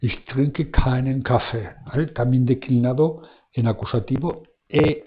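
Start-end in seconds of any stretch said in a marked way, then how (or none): 0.0-1.7 slow model sentence, keinen stressed on its first syllable; teacher's slow German model with keinen stressed. Shown as a demonstration. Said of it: "el acento va en la A".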